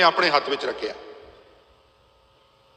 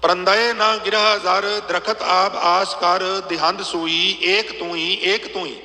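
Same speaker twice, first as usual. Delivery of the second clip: slower and slightly lifted scripture chant; slow, raised verse recital; slower than usual. Acted. Preacher reciting the full verse to the congregation, slow and raised. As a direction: recite the whole verse slowly, with rising devotion.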